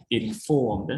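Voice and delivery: "Informed" stressed on its second syllable; stress on FORM. Shown as a demonstration. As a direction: put the weight on FORM in "Informed". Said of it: "Also stress on form".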